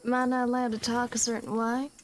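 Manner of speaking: put-on slow, drawn-out Southern accent; slow drawl. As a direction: lazily drawl the question. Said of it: "all slow like?".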